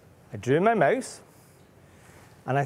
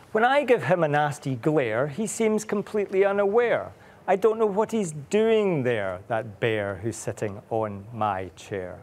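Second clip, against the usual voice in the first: slow rhythmic reading, trailing off at the end; rhyming read-aloud; slower than usual. A narrator's reading. Parent reading the mouse's rhyme, slow sing-song. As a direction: read the verse slowly for a child. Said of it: "So the mouse says".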